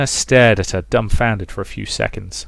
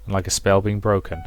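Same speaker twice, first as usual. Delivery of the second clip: story narration. A narrator's reading. Reading the chapter aloud to listeners, gentle steady narration. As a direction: read it like an unhurried novel narrator.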